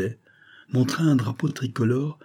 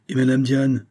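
higher, alarmed question; exclaiming; 4 semitones higher, 3 dB louder than usual. A narrator's reading. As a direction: cry out the question, pitched up. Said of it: "s'écria Grain de sel". (s'écrier, voix plus haute)

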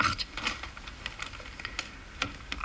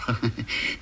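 chuckle; 5 dB quieter than usual. Acted. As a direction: chuckle briefly to yourself. Amused aside in recounting the story. (kurzes Glucksen)

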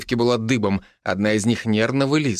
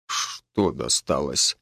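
surprised; 9 semitones lower, 5 dB quieter, much slower than usual. Acted. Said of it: "удивлённо посмотрел на жену майор".

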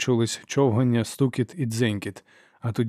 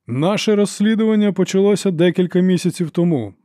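higher, louder, ringing proclamation; archlector's announcement; 7 semitones higher, 6 dB louder than usual. A narrator's reading. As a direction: relish opening the case. Archlector opens the case.

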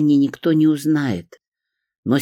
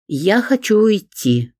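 raised, slow insistent plea; loud; 9 semitones higher than usual. A narrator's reading. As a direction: say it loud and firm. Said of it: "громко сказала я".

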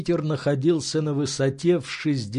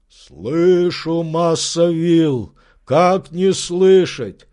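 slow, louder, mildly aggrieved; servant answering; 4 semitones higher, 6 dB louder, much slower than usual. Acted. Servant answering his master from the tree, slow. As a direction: answer a bit put out.

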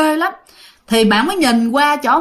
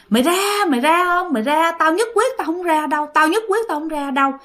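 higher-pitched mock defiance; raised-pitch, insistent retold refusal; defiant refusal; 5 semitones higher than usual. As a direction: imitate a possessed girl refusing stubbornly. Possessed girl defiantly refusing exorcist.

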